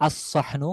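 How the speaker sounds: "আস-সহনু" with doubled heavy s, no l; silent lam. Shown as a demonstration. Teacher naming the definite plate, "আস-সহনু" with lam silent. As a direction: hold the s in "আস-সহনু". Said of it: "লামের কোনো উচ্চারণ থাকবে না".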